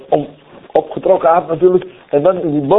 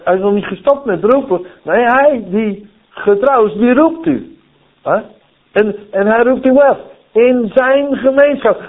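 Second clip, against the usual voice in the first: ordinary talk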